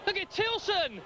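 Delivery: slow, stretched "What a goal"; excited goal call. Real, not acted. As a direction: savour the goal in amazement. Commentator calls a goal.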